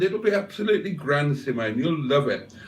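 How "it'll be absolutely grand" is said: quick high chirpy reassurance; brisk reassurance. Acted. To Simone again, quick upbeat reassurance. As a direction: rattle it off brightly.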